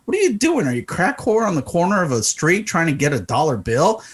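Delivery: retold irritation, swooping up on the questions; pissed off. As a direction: act out fed-up disbelief at a shameless demand. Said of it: "Now I'm getting pissed off".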